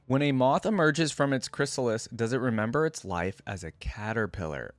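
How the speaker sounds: measured read-aloud quote, lifted at the start. Acted. YouTuber reading a champion's quote to viewers, quote reading. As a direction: read it out as an intriguing question.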